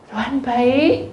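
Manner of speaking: usual speaking voice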